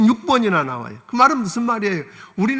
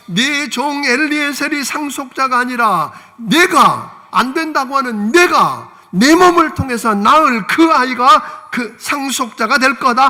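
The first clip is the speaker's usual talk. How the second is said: lightly voiced God's promise; 3 semitones higher, 4 dB louder, slower than usual.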